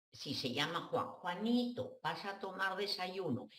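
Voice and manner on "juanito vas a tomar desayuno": put-on higher, sing-song mother talking to a baby. Mother babying grown son Juan at breakfast, sing-song. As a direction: coo at a grown son like a toddler. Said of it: "ya lo estoy tratando como bebé".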